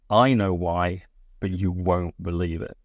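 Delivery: measured teasing reveal, not racing to the climax; hanging suspense. Shown as a demonstration. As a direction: let each phrase hang in the air. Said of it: "let that hang in the air".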